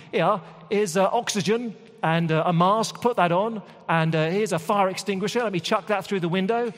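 high-pitched, chatty mock fireman; helpful rescuer. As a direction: hand over the kit with breezy helpfulness. Mock firefighters hand over tools.

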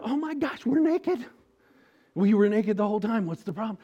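high, loud panicked babble; flustered, freaking out; hammed-up panic over being naked; mock panic. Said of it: "They're freaking out".

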